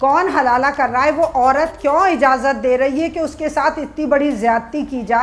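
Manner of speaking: calm, deliberate. Real, not acted. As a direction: make the point slowly without shouting. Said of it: "मैं आराम से बात करती हूँ".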